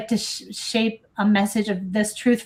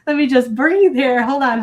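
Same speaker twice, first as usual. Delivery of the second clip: a shaky release of breath, then pulling it together; steady yourself against welling emotion, real; choked-up pause to breathe; getting emotional; 4 semitones higher, 6 dB louder than usual. Real, not acted. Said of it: "I'm, like, getting emotional reading this".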